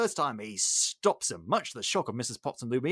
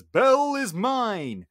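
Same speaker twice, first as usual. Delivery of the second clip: possessive villain; 9 semitones higher, 6 dB louder, slower than usual. Retold or imitated. Gaston claims Belle.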